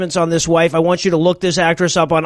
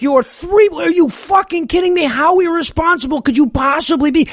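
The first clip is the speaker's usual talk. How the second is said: mock outrage; 9 semitones higher than usual.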